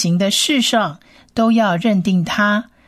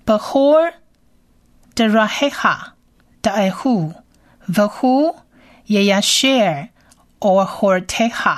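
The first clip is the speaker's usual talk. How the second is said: reading Hebrew aloud; faster than usual. Shown as a demonstration. Teacher reads the verse in Hebrew for listeners. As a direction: read each word with a pause. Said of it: "原文读一遍".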